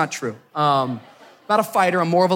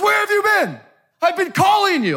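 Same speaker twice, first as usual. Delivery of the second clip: high, strained yell imitating an angry driver; mock screaming; 4 dB louder than usual. Uber driver berating passenger in front of everybody, imitated screaming. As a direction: scold like an irate driver. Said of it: "he starts screaming at me".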